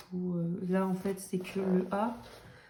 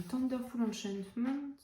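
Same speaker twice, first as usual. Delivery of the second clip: put-on English accent; 4 semitones higher, slower than usual. Shown as a demonstration. Vlogger reading out a book title, put-on English accent. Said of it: "prends mon accent".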